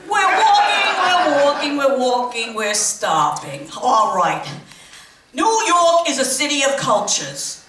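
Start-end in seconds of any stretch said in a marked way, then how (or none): 0.1-3.7 tour guide call. Acted. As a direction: chant that slows and drops to a stop. Tour guide chant winding down.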